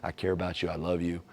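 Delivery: reassuring a partner that you want to hear; gentle caring ask. Acted. Asking partner with love.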